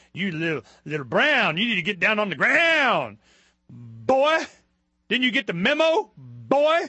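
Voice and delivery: hammed-up threatening cop; mock cop. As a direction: bark it like a power-tripping officer. Voicing a cop harassing someone.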